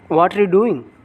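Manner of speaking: "What are you" squeezed into "whatcha"-like syllables; native contraction. Shown as a demonstration. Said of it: "They will speak".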